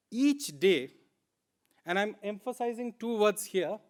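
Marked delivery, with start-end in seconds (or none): 0.1-0.9 each day pressed firmly and set apart; stress on each day. Shown as a demonstration. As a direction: punch each day so it lands. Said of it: "Second word is each day".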